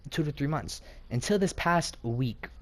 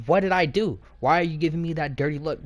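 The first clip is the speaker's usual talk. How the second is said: raised, mildly indignant retold comeback; indignant protest. Student protesting the teacher's dirty look, indignant.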